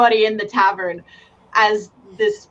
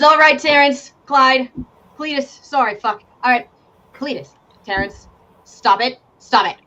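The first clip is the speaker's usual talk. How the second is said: commanding shout; 2 semitones higher than usual. Acted. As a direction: break up the brawl. Rider commands fighters.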